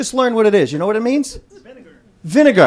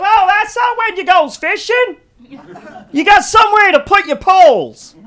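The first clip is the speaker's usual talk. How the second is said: much higher, louder, slow put-on hick voice; redneck fisherman; 10 semitones higher, 6 dB louder than usual. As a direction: play the dim redneck explaining his truck. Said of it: "He goes".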